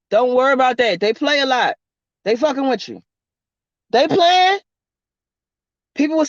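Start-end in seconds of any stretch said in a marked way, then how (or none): none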